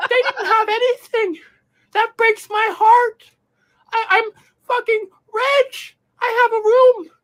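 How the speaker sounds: hammed-up sob over owning a room and phone; mock crying. Streamer fake-sobs over his luxuries, hammed-up crying. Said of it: "I'm gonna cry".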